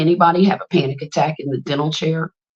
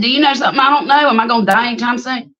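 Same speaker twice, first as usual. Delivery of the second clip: mock alarm; 5 semitones higher, faster than usual. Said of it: "I said".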